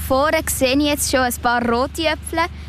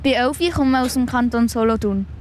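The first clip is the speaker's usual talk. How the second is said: mouth full. Real, not acted. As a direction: still chewing while talking. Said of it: "Mit vollem Mund redet man eigentlich nicht".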